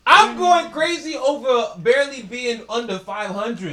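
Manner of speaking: slow, loud hyped-up rant; slow emphatic fan yell; excited shout. Real, not acted. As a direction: shout it out, worked up over his team. Hyped rant about the Knicks.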